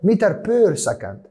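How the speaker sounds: chic per. Shown as a demonstration. Teacher showing students the classy way to say per, slow and high. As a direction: say متر بير سكند like it's elegant. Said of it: "عايزين نتشيك كده ونقول كده".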